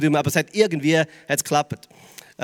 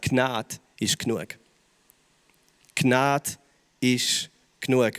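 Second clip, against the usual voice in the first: viel tiefer und leiser, langsam mit Pause; ganz leiser Zuspruch; 6 semitones lower, 5 dB quieter, much slower than usual. Acted. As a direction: sprich es dem Zuhörer sanft ins Herz. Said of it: "er sagt". (Prediger spricht den Jugendlichen Jesu Zusage leise zu)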